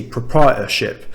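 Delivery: "proprietorship" with a glottal catch instead of the second T; T skipped. Shown as a demonstration. Teacher repeating the Estuary version for learners, T skipped. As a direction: drop the T before -ership in "proprietorship". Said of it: "He skipped the letter T".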